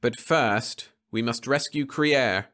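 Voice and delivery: a hint of calm menace; cool Venusian. Leffler demanding the radio from the crew, cool menace.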